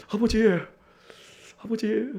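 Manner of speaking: soft, timid pleading to a father; imitating a child begging dad for pocket money, softly; mock begging. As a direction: beg meekly for money. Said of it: "막 이러면서 막 구걸하냐?".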